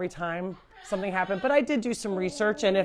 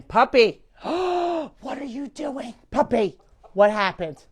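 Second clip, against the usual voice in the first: surprised; 2 semitones higher than usual. Real, not acted. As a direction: caught him in the act. Owner catching dog misbehaving.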